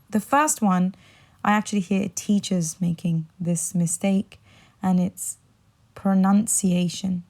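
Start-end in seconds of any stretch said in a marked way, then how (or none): 5.9-7.2 pronunciation, second syllable like nun, said slowly; correct pronunciation. Shown as a demonstration. Teacher introduces the first often mispronounced word, correct pronunciation with NUN. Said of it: "put the nun instead of the noun".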